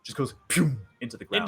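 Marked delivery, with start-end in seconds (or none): 0.5-0.7 quick "pew" shot sound; imitated bullet noise. Game master sounding out a bullet's flight, imitated shot. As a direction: mimic a bullet zipping past.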